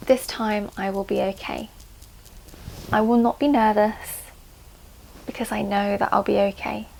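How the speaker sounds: measured meditation delivery with long pauses; calming guided affirmations. Shown as a demonstration. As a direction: let each reassuring phrase settle before the next. Leads calming tapping affirmations.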